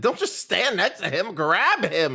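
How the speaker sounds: loud, high-pitched urgent yelling; exasperated shout. Real, not acted. Player yells at guards to seize runaway, exasperated shout. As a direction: shout orders at useless bystanders.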